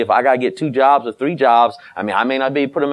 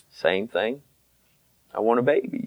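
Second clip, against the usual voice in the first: put-on wife wanting a baby; 2 semitones lower, 8 dB quieter than usual. Wife's complaint, voiced by husband.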